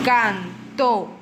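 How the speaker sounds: «Cantó» slow, split in two, weight on the final tó; stress on last syllable. Shown as a demonstration. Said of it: "lleva la fuerza de la voz". («Cantó» con la fuerza de la voz en la última sílaba)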